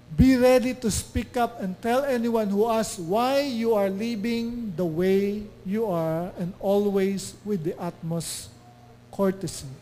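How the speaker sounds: slow, deliberate verse reading; scripture reading. Acted. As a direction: read the verse again, steady and measured. Rereads same verse. (mabagal na muling pagbasa ng talata)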